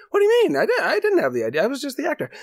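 high, fast flustered protest; panicked Chris Klein. Retold or imitated. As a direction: blurt it out high and quick in panic.

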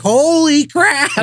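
high, slow, laughing "holy crap"; a stunned, giggling holy crap; stunned exclamation. Retold or imitated. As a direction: gasp it out half laughing in shock. Shocked at the dad's outburst.

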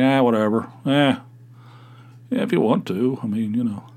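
imitating an indifferent shrug of a reply; mock half-hearted agreement; unenthusiastic. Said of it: "Such enthusiasm, bubbling over".

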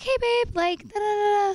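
high, breezy chatter; wife imitates her own breezy interrupting, high; mock chatty. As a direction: chirp it out lightly. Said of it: "But I was like".

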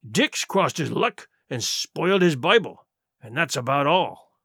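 pirate chief easing off after winning; lightly voiced pirate leader, self-satisfied. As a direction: lord it over the crew, unhurried. Silver, back in charge, addresses crew.

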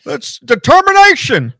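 high, loud, halting impression of a mumbling commentator; mocking Jim Ross. Mocking Jim Ross rambling on commentary, high and halting. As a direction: stumble over determination like an old announcer. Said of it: "He said that twice".

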